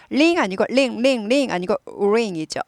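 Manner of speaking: "링" in one beat from rounded lips; 한 박자 ring. Shown as a demonstration. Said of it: "한 박자에".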